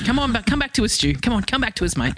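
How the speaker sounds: calling a friend back. Retold or imitated. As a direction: call him back like a straying pet. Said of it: "keep him on a bit of a leash".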